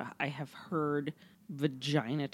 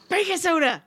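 shouted high punchline; loud goofy answer; 12 semitones higher, 8 dB louder than usual. Acted. Acted punchline reply.

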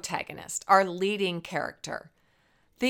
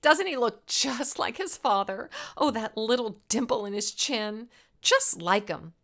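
snide; 4 semitones higher than usual. Acted. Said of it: "she'd snide".

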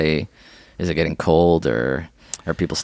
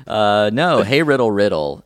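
ordinary talk, nothing marked

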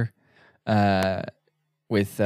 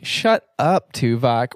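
exasperated groan, pushed out louder; groaning shut up; 4 dB louder, slower than usual. Retold or imitated. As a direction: roll your eyes and groan it. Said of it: "the groan out loud of".

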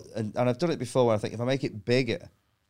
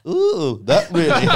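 higher, louder sarcastic wince; mock hurt; 5 semitones higher, 7 dB louder than usual. Telling the puncher it hurt, sarcastic mock pain. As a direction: pretend it didn't hurt, sarcastically.

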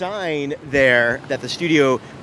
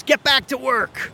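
high, loud mock yell; yelled imitation, pitched way up; imitated heckler shout; 11 semitones higher, 4 dB louder than usual. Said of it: "yells out and shouts at us".

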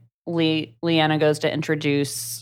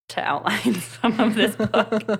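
higher-pitched, laughing through the words; giggly, high-pitched admission; laughing confession; 7 semitones higher than usual. Real, not acted. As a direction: confess it while cracking up. Confesses forgotten notes while laughing.

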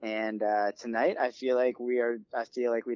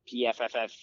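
soft pff. Shown as a demonstration. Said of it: "the punchline is just a sound effect".

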